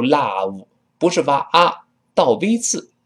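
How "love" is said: "love" mispronounced with a wide ah, like lao; wrong open vowel. Shown as a demonstration. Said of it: "不要读love". (把“love”错读成张大嘴的“啊”音)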